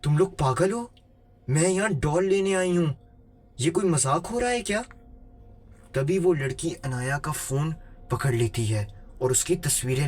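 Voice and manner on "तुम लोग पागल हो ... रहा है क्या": acted indignant yell. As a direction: play a frightened customer crying out in protest. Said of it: "उसने चीख कर कहा".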